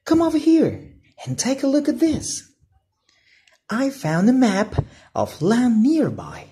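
put-on high, eager young boy voice; a thrilled kid showing off a secret map; Flynn, excited boy. Flynn tells his brother about the treasure map, excited. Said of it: "said Flynn".

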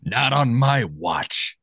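very slow gruff cop line. Retold or imitated. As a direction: drag it out like a tough cop. Quoting Officer Mooney.

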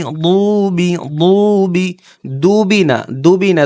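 showing what not to say; wrong dubi demo. Shown as a demonstration. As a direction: stretch out the mistaken দুবি. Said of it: "দুবি বললে কি হবে?".

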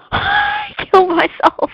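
high, loud, drawn-out laughing wail; laughing outcry. Real, not acted. Player blows himself up with his weapon, laughing outcry. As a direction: squeal it through real laughter.

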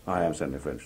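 low-pitched, restrained insistence; firm self-identification. Acted. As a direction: state your name firmly, dropped down low. Acted quote, Stanley repeats it lower.

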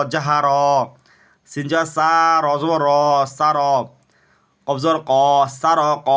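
recitation drill. Shown as a demonstration. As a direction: stretch each final syllable, pausing between units. Leads Arabic spelling drill.

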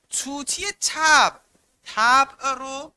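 teacher isolates the key phrase slowly and loudly; slow emphatic. Shown as a demonstration. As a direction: spell the phrase out slowly for the class. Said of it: "درون رو به طوطی مانند کرده".

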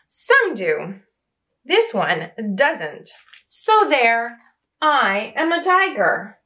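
lively storybook reading, voices rising for questions; reading to children. Acted. Reading I Am Tiger aloud to young children, lively and animated. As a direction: read it like a bedtime picture book to little ones.

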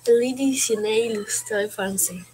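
"Le Dictionnaire Illustré Français" tried slowly in French; slow learner's attempt at "Le Dictionnaire Illustré Français"; learner's French pronunciation. Shown as a demonstration. Student shows teacher how she thought it sounded, slow learner's French. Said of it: "¿Cómo creías tú que se pronunciaba?".

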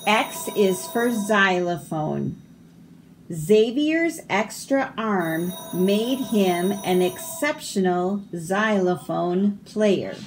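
measured, lilting read-aloud; picture-book reading. Acted. Reader presenting the xylophone page, picture-book reading. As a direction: read each phrase out clearly for children.

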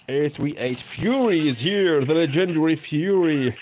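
lightly hyped-up announcer's introduction; mock announcer. Gamer heralding the legendary Fury, mock announcer.

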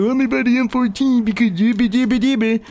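mock his own greedy self; mocking himself. Streamer mocks his past self, goofy. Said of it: "I was like".

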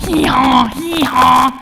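happy bray. Acted. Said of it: "I get excited and I go".

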